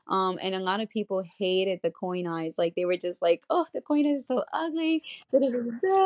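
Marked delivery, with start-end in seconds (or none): 3.5-6.1 high-pitched mimicry of haters; mocking complaint. Imitating people who hated the coin eyes, mocking complaint. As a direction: parrot the complainers in a raised voice.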